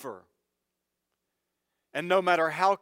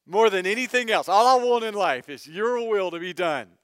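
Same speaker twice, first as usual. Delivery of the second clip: emphatic quote; 5 semitones higher, 8 dB louder than usual. Retold or imitated. Mocking quote, louder.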